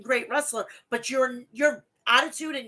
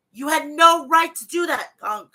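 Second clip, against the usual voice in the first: angry rant; 3 semitones higher, 6 dB louder than usual. Real, not acted. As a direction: hammer "no" as if scolding Punk. Ranting directly at Punk.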